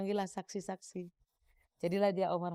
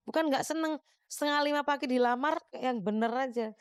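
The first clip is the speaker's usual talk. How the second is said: mildly exasperated retort, pitched up; mock protest; 5 semitones higher than usual. Woman answering suitor who proposed at half past four, mock protesting. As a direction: retell it as a higher-voiced protest.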